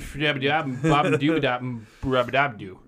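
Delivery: lightly voiced mumbling old president; Biden impression. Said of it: "I can do a great Biden".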